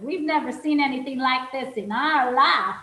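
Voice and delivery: put-on a light Southern US accent on the toll booth line; lightly drawled Southern accent, amazed. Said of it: "I could do this in a real Southern accent".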